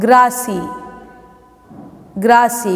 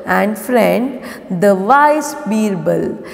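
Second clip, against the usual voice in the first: story read-aloud. Acted. Teacher reading the lesson for pupils to follow, measured read-aloud. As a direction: read it out word by word for children.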